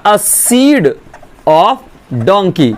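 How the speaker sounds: each word slowly and deliberately; quoting the insult with slow weight; slowly spelled out insult. Retold or imitated. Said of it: "first word था इसका".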